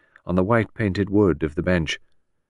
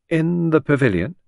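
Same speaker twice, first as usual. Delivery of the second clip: careless amusement; 8 semitones higher, 4 dB louder than usual. A narrator's reading. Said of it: "in a tone of careless amusement".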